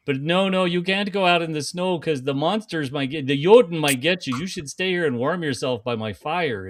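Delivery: hammed-up Minnesota accent. Warning a cute Dane girl about monsters, Minnesota accent. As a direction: play it as a Minnesotan. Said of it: "the Minnesota".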